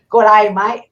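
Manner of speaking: half-successful attempt at an Australian accent. Shown as a demonstration. Showing the co-host a failed try at the greeting, in Australian accent. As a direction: try the Aussie greeting, only lightly put on. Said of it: "can't even do the Australian accent".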